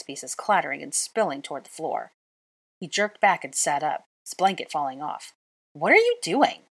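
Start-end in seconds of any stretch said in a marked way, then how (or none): 5.7-6.7 high, loud startled yell. A narrator's reading. Draco yelling as the chess pieces fly. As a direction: shout at her in alarm. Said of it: "he yelled".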